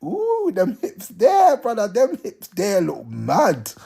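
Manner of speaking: slow drawn-out admiring coo; admiring girl. Retold or imitated. Girl admiring his hips, slow impressed coo. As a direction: savour each word, impressed. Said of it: "She's looking at you thinking".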